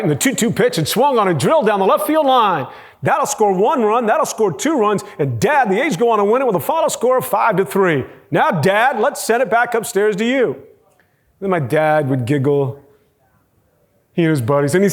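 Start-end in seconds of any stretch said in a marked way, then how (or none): 0.0-10.6 lightly voiced kid doing play-by-play, higher than usual; a hint of an excited announcer recapping the game; mock sportscaster. Young son calls the ball game for Dad, mock play-by-play. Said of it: "Obi, tell everybody about the game".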